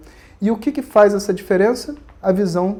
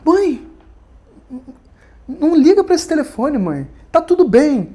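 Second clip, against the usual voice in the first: flustered son, pitched high and hushing his mother; embarrassed son rushing his mother off the phone; a son caught out, hushed and a little panicky; nervous son on the phone; 8 semitones higher, 4 dB louder than usual. Retold or imitated. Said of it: "Já ficou nervoso".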